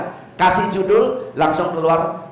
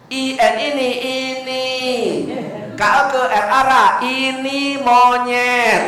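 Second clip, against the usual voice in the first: put-on high, very slow spelling-out for a little child; parent teaching toddler; 8 semitones higher, slower than usual. Parent teaching small child to read, high slow patient voice. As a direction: sound out each letter patiently for a small kid. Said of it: "diajari ngomong".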